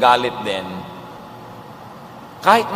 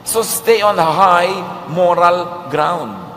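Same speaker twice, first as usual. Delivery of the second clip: slow emphatic exhortation; 3 semitones higher, much slower than usual. Real, not acted. Preacher's key exhortation.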